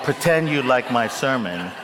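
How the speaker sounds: repeating own line through laughter; laughing quote. Retold or imitated. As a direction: chuckle while quoting yourself. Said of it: "when we edit, we'll take out".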